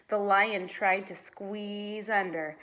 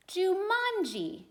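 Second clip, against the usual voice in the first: slow, mysterious; 11 semitones higher, slower than usual. A narrator's reading. Reading mysterious name slowly.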